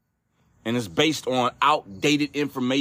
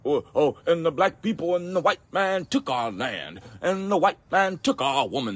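mock tirade; 4 semitones higher than usual. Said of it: "emotional tirades about just".

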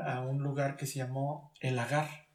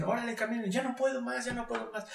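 acted exhausted complaint; 6 semitones higher, 3 dB quieter than usual. Acts exhausted runners on morning drill.

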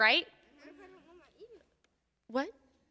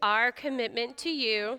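leading a prayer; slower than usual. Acted. Leads a repeat-after-me prayer.

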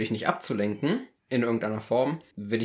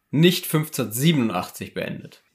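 nicht hit hard at the start; stress on nicht. Shown as a demonstration. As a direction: lean on the word nicht. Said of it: "große Betonung auf nicht".

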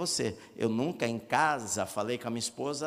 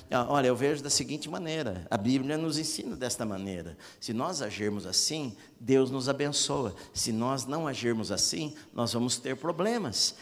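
gentle reasoning tone; 3 semitones lower, 3 dB quieter than usual. Shown as a demonstration. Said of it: "você que é crente".

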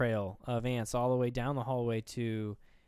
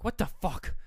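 higher-pitched startled disbelief; mock freak-out; 6 semitones higher than usual. Woman hearing a click in the car, mock freak-out. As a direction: imitate someone starting to lose it. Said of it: "she's literally, like, losing her shit".

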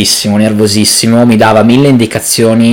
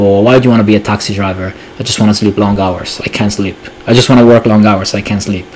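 Taxi Driver quote; 3 semitones lower, 4 dB quieter than usual. Retold or imitated. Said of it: "gli chiede il tipo".

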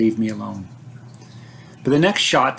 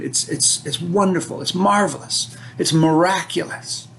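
higher, awed and thrilled; awed excitement; 4 semitones higher than usual. Real, not acted. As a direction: gush about the rescue. Rescue as a magical moment.

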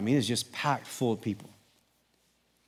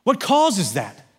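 higher, louder sermon push; fervent preaching; 10 semitones higher, 7 dB louder than usual. Acted. Pastor rallies congregation about making disciples, fervent preaching. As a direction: preach it with rising fire.

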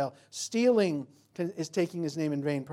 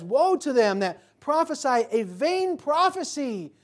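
high, loud, slow woe proclaimed; booming divine warning; 9 semitones higher, 8 dB louder, slower than usual. Acted. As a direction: thunder it as the voice of God. Voicing God's warning again.

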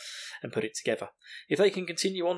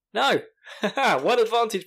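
emphatic no; 8 semitones higher, 6 dB louder, slower than usual. Real, not acted. Answers imagined listener.

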